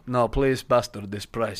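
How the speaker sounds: lightly put-on foreign-accented bag seller; Jose Mourinho. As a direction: haggle in a mock Portuguese accent. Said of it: "I'm doing Jose Mourinho".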